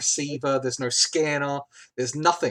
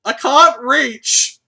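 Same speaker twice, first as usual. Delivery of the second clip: little robot voice; 7 semitones higher, 9 dB louder, much slower than usual. Acted. GM voices Squeak straining.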